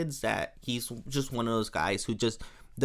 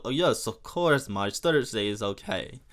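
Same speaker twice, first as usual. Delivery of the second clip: light mock French accent; playfully hammed French suitor; 3 semitones lower than usual. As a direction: agree as a put-on French charmer. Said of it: "it's just such a fun accent to do".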